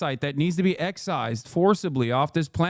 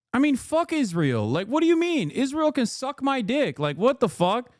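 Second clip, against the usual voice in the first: high-pitched, indignant swearing; incredulous, fed-up rant; exasperated outburst; 5 semitones higher than usual. Real, not acted. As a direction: let real exasperation lift your voice. Ranting in disbelief at the article.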